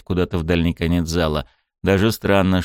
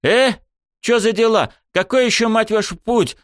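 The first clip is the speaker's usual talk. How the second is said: high, startled confusion; baffled; 14 semitones higher than usual. A narrator's reading. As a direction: react with bewildered outrage. Confused hero reacts.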